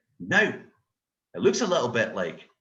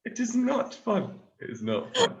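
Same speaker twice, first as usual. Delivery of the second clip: mock complaint; 10 semitones higher, 4 dB louder than usual.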